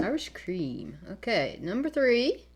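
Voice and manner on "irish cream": whispering. Real, not acted. Whispered aside.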